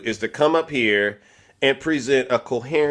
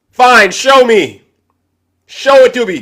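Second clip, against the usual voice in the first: mock challenge; 9 semitones higher, 8 dB louder than usual. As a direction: demand proof in fake anger. Mock argument with muted guest.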